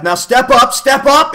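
high, shouted command; loud urging. A narrator's reading. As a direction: call it out high and insistently. The voice urges them upward.

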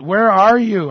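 loud, high call to an absent God; crying out. Acted. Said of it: "I'm crying out".

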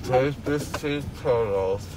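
slurred numb speech; numb mouth. Real, not acted. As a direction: talk through a numb mouth.

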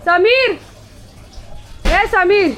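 loud, high call for Sameer. Real, not acted. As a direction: shout his name so he hears from the other room. Calling Sameer from afar.

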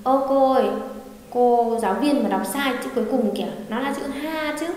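lightly voiced student calling out to the teacher; observant student. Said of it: "có bạn nào tinh ý". (giọng học trò bắt lỗi cô giáo)

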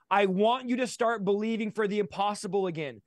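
impassioned exhortation, pitch climbing as it builds; fervent preaching. Real, not acted. Guest urging listeners to believe for the impossible, fervent preaching. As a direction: urge listeners into bold prayer.

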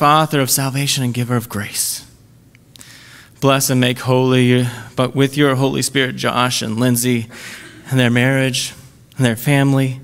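solemn spoken prayer, measured pace. Acted. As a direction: pray it over the couple, unhurried. Wedding prayer by officiant.

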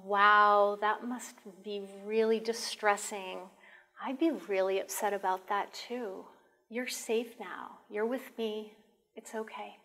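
calm a frightened person down gently; gentle calm voice. Shown as a demonstration. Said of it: "speak in a gentle, calm voice".

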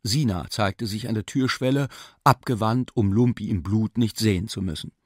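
ordinary delivery

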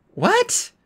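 put-on high, irritated girl; annoyed girl voice. A narrator's reading. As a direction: snap back, annoyed. Annabeth again annoyed.

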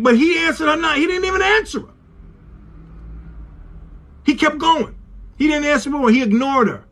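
high-pitched preaching in disbelief; impassioned preaching. Real, not acted. Preacher tells congregation he ignored her, impassioned.

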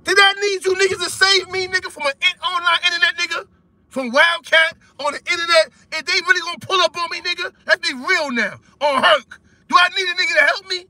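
heated and high-pitched, pushing back hard; angry outburst. Real, not acted. Friend on a call furious at being defended, high angry voice. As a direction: raise the pitch, indignant and fed up.

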